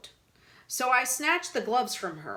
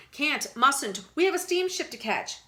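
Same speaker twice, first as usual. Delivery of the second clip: higher, flustered squeak; flustered refusal; 6 semitones higher than usual. A narrator's reading. Blushing Mister Willow refusing Frank's invitation, flustered. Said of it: "blushing some more".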